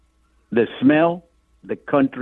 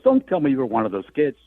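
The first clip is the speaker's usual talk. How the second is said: put-on laughing old man; 6 semitones higher, faster than usual. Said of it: "To which he began laughing".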